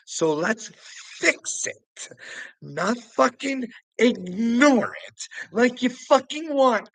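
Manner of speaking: high, drawn-out scolding of a cop; indignant dressing-down. Retold or imitated. Citizen demanding a cop listen, indignant scolding. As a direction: lay down the law, word by word, pitched high. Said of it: "I didn't say that. I was nice".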